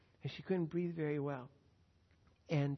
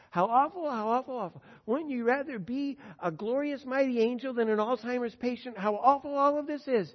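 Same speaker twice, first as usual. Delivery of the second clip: mock lament; 6 semitones higher, 8 dB louder than usual. Preacher voicing pitying onlookers.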